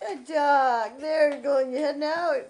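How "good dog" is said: laughing praise. Real, not acted. Praising dog through laughter.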